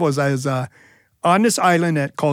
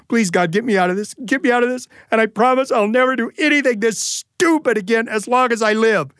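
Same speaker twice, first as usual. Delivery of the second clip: panicked prayer; 5 semitones higher than usual. Retold or imitated. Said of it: "I start to pray".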